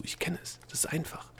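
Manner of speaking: soft, confiding whisper. A narrator's reading. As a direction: whisper it so only he hears. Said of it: "flüsterte Delia ihm zu".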